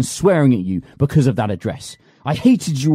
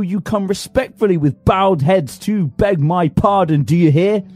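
shrill taunting rage; 6 semitones higher than usual. Acted. Master taunting servant with his wages, shrill rage. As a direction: dangle the money and taunt him.

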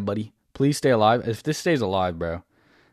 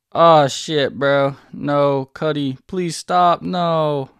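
panicked; 5 semitones higher, 5 dB louder, much slower than usual. Real, not acted. Tower under attack.

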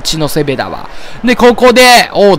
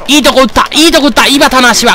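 higher and louder, thrilled; excited; 6 semitones higher, 3 dB louder than usual. Real, not acted. Gamer cheers his batter's good contact, excited and high. Big hit in the game.

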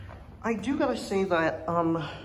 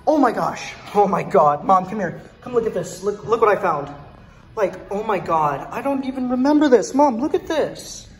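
louder, thrilled call to Mom; excited calling; 6 dB louder than usual. Real, not acted. Kid calls his mom over to a bell he found, thrilled. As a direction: shout out a great discovery.

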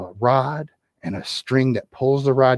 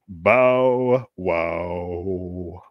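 dog bark; 7 semitones lower than usual. Acted. Dog replies.

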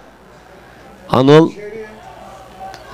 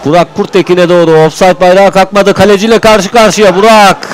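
rising excitement; 6 semitones higher, 4 dB louder than usual. Real, not acted. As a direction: pitch and volume climbing toward the chance. Striker through on goal.

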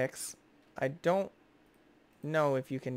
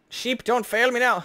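"Sheep, don't fail me now" higher and louder, pun punched; hammed-up plea; 9 semitones higher, 7 dB louder than usual. Shown as a demonstration. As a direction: belt out the pun like a desperate cry. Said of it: "'Cause it normally says feet".

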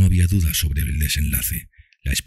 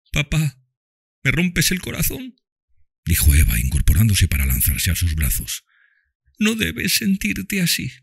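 put-on high child voice, tender; dying girl speaks lovingly to Tom and Mami, high child voice; loving little girl; 10 semitones higher than usual. A narrator's reading. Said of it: "la niña lloró y sollozó".

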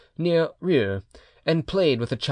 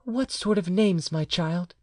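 higher, slow woman's voice; questioning mother; 5 semitones higher, slower than usual. A narrator's reading. Mother asks her child about the names, gently questioning. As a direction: ask slowly in a raised voice, softening at the end.

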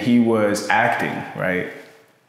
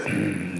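short stoic throat-clear, imitating a serious guy; stoic grunt; 2 semitones lower, 7 dB quieter than usual. Shown as a demonstration. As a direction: demo of a stern, wordless grunt. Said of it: "more so stoic".

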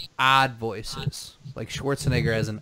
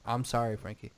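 insincere apology; faster than usual. Real, not acted. Saying sorry to an offended co-host, insincere. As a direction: apologize without meaning it. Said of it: "didn't have no sincerity to your voice".

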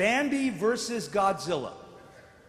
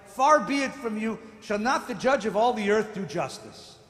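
rising, louder pleading challenge; Abraham challenging God; 5 dB louder than usual. Acted. Abraham confronting God over the city, rising challenge. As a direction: press God hard, half pleading. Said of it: "Abraham says to God".

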